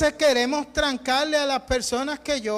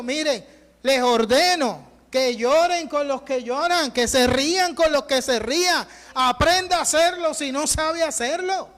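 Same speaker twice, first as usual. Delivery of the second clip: imperative command; 3 semitones higher than usual. Retold or imitated. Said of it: "Pablo está hablando de manera imperativa".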